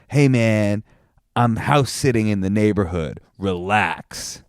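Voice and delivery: lightly voiced mellow van dweller; laid-back hippie. Van owner answering a note, lightly imitated laid-back hippie. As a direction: draw it out like an easygoing hippie, mildly mocking. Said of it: "I assume he said it like this".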